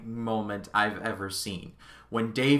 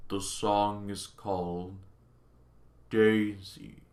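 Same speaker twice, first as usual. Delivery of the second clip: failing computer voice; 4 semitones lower, 5 dB quieter, slower than usual. Retold or imitated. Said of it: "Hal is like".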